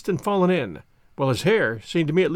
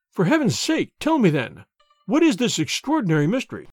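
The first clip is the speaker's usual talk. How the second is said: pleading banker; 3 semitones higher than usual. Acted. Banker begs Holmes, pleading. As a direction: beg for the answer.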